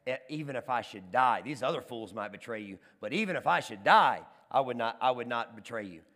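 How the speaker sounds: acted solemn vow, loud on DIE; emphatic vow. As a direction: swear loyalty, punching the key words. Peter's vow acted in sermon.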